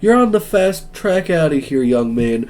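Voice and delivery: high-pitched, acted telling-off; indignant scolding. Professor scolding a student late to class, indignant.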